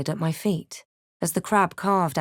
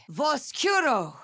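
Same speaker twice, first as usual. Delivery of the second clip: 1 spell cry; 7 semitones higher than usual. Acted. Shouted spell incantation.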